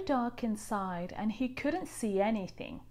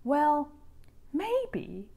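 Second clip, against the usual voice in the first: higher, slow reluctant voice; giving in; 7 semitones higher, slower than usual. A narrator's reading. Rainbow fish persuades himself, slow and reluctant. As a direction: talk yourself into it. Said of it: "he thought".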